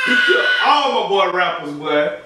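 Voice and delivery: high, hammed-up wail of protest; mock outrage. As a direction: cry out in playful protest, pitch leaping up. Mock lament for his favorite rappers.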